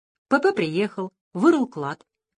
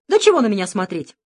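muttering; 5 semitones higher, 5 dB louder than usual. Acted. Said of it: "бормотал П П".

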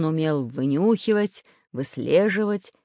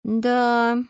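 Prutik; 7 semitones higher, 6 dB louder than usual. A narrator's reading. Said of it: "сказал Прутик".

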